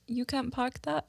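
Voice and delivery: tentative British accent, tune rising; half-hearted British accent; British accent attempt. Shown as a demonstration. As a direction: try a British accent, not very well. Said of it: "with British".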